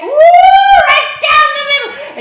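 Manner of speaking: high, loud drawn-out whoop; whooping exclamation. Retold or imitated. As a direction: relish the rip with a long whoop. Reacting to ripped coat.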